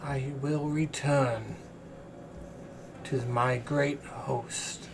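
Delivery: chained celestial diva. Acted. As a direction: speak as a weary, captive angel.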